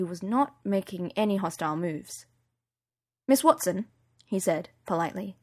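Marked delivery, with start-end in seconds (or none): 3.3-3.9 polite Yorkshire bodyguard, lightly voiced; a hint of Yorkshire, courteous; Yorkshire accent. Bodyguard greeting Miss Watson at the door, light Yorkshire accent. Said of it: "He had a Yorkshire accent".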